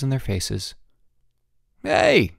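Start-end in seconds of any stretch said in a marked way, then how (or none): 1.8-2.3 high, loud startled cry; gasped protest. A narrator's reading. Bruno suddenly attacked with dirt, gasped protest. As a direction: blurt it out in shock. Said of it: "gasped Bruno".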